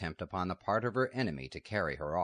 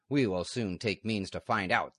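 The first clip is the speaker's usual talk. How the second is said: louder menacing reply; exclaimed; 2 semitones higher, 4 dB louder than usual. Acted. Outlaw answering the abbess, loud and menacing. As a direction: snap it back as a threat. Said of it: "the man exclaimed".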